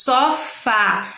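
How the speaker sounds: "só fá" by syllables, open á; open final vowel. Shown as a demonstration. Teacher showing acute accent, "só fá" split and open. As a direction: sound out "só fá", opening the last vowel. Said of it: "usado em sons abertos".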